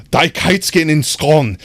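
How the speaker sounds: hammed-up German accent, drawn out slowly; slow mock-German, horribly butchered. Streamer showing chat how German sounds to English speakers, mock German accent. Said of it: "that's how I hear the accent".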